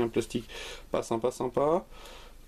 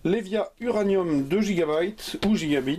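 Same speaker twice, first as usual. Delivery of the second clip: mock English accent on gigabytes, slightly raised; 5 semitones higher than usual. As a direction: show off a hammed-up English accent on the brand name. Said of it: "avec mon superbe accent anglais bien travaillé".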